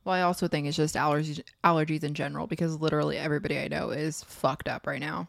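talking with a mouth full; words round a bite of Pop-Tart. Real, not acted. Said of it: "You sound a little stuffy, too".

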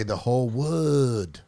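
slow, drawn-out mock Chinese accent on "wood". Shown as a demonstration. Comic recalling his idol joke, mock Chinese accent. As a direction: say it slowly in a put-on Chinese accent. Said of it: "I do the Chinese idol joke".

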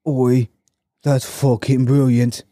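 attempted British accent, drawn out; roughly imitated British exclamation; bad British accent. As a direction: have a half-hearted go at sounding British. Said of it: "can't really do it in, uh, British".

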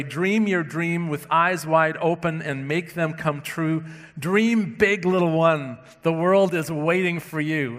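lightly inspirational storybook reading; a touch of picture-book encouragement; children's book reading. Retold or imitated. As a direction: read it out with a lift on "Dream big". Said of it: "One children's book I, I found begins this way".

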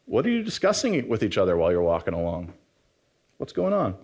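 casual, quick and mostly low-pitched question; matter-of-fact. Retold or imitated. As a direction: ask it offhandedly, as plain fact. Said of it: "I just love how matter of fact".

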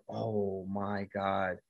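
very slow, dragged-out shocked "Oh my God"; stunned. Real, not acted. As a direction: let the shock stretch every word. Stunned by the arm break.

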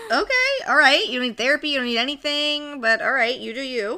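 high, hammed-up shrug; mock breezy dismissal. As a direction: airily wave it off.

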